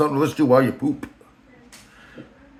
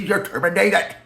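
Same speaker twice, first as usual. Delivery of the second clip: higher, odd-toned put-on boss voice; Rand's voice; 6 semitones higher, slower than usual. Boss firing Joanne, mocked in a higher voice. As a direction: deliver the firing like a cartoon boss. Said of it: "I'm just filling in voice".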